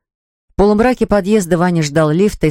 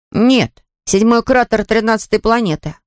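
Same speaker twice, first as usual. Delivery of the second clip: put-on high-pitched child's retort; boy objecting; 5 semitones higher than usual. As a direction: answer back as a younger brother, pitched up. Мальчик отвечает сестре. (мальчик возражает высоким голосом)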